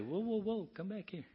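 high, urgent whoa, pulling someone back; calling someone back. Acted. Coach calling a drifting friend back, urgently high. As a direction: shout a friend back from the edge. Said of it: "that will say".

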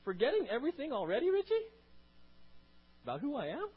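high, loud incredulous rebuke; shouted rebuke. Retold or imitated. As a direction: shout the question at him. Repeated rebuke, louder.

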